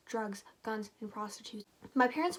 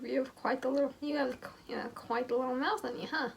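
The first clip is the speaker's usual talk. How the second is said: hammed-up smirking bad boy, higher and louder; exaggerated smirk; 3 semitones higher, 3 dB louder than usual. Mocking how Owen smirks at Amber, hammed-up cocky smirk. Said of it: "I imagine this".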